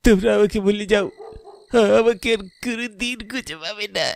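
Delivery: a ghost grieving for his mother; ghostly lament. Acted. Dead son's ghost to mother.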